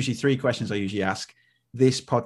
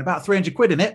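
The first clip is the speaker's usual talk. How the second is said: higher, louder mock heckle; retold shouted heckle; 8 semitones higher, 5 dB louder than usual. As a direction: call it back like an audience wisecrack. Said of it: "someone shouted back to me".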